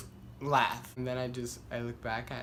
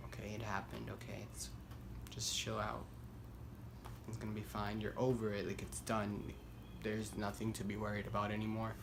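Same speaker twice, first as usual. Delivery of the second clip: much softer, hushed reassurance; calming self-talk; 3 semitones lower, 10 dB quieter than usual. Retold or imitated. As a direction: talk yourself down quietly. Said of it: "I get calmer".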